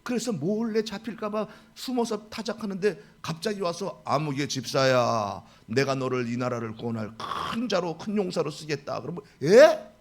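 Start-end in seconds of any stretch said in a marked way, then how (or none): 4.1-9.0 lightly voiced divine summons; God calling. 9.4-9.9 sudden loud high yelp; shocked loud huh; startled what. Retold or imitated. Startled reply to God.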